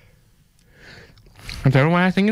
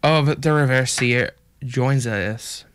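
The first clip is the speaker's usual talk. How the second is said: put-on a light American country accent held through the chat. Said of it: "I'm doing a pretty good country accent".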